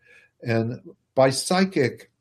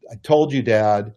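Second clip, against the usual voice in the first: put-on told-you-so child; 4 dB louder than usual. Child after the crash.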